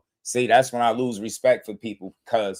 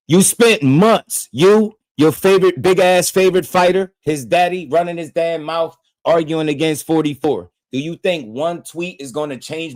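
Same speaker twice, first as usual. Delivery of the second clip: heated rant; 6 semitones higher, 6 dB louder than usual. Real, not acted. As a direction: tear into Vince at full volume. Ranting at viewer Vince.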